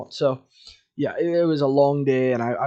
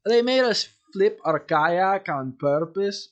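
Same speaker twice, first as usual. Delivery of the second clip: corrected Russian accent; 5 semitones higher than usual. Shown as a demonstration. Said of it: "Yeah, that's better".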